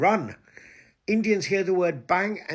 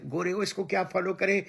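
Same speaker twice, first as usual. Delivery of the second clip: fast, higher sneering mock voice; rapid, higher mock gossip; mocking his critics; 4 semitones higher, much faster than usual. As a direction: parrot the critics' gossip quickly. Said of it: "तुम सब मुझे कहते थे".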